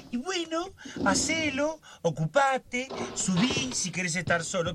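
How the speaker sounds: high mocking imitation of the family. Lorenzo mimicking his family's easy advice. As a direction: parrot them in a high, whiny voice. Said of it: "le dicen".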